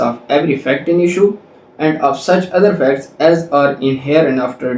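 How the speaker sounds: reading the law out slowly, word by word; slow, deliberate legal reading; slow statute reading. Shown as a demonstration. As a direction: dictate the section clearly to students. Reads statute text aloud.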